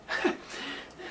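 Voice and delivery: soft, airy acted sigh; dainty little sigh. Landlady sighs over passing time, daintily. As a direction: let out a small, delicate sigh. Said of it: "heaving a dainty little sigh".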